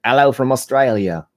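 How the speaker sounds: a closer go at an Australian accent; mock Australian greeting, retake; second Australian accent try. Shown as a demonstration. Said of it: "maybe that's closer".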